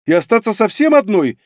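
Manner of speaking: protest, offended at being sent off; indignant. Acted. Fox girl indignantly refusing to go home alone. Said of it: "возмутилась она".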